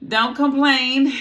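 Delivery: loud, high and slow; loud scolding. Real, not acted. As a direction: bark it as a warning. Scolding non-voters.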